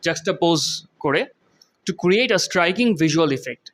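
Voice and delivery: very slow, careful English; slow teaching repeat. Shown as a demonstration. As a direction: drag each word out for the class. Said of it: "repeats example slowly to teach".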